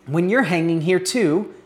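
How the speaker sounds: paraphrased rebuke. Retold or imitated. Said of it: "rebukes the first and he says".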